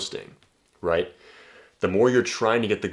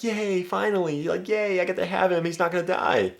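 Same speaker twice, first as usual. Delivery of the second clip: mock happy wife; 11 semitones higher than usual. Wife relieved he quit boxing, high girlish mock cheer. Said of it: "She's like".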